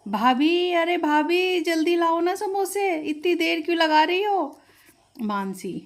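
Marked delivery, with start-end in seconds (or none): 0.0-4.6 calling from the other room, a bit higher; impatient call for the samosas; hurrying her sister-in-law along, mildly raised. Acted. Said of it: "Anjali ने आवाज़ मारी".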